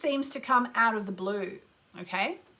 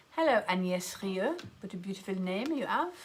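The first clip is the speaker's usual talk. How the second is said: put-on French accent; 3 dB quieter than usual. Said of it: "put on a crazy French accent".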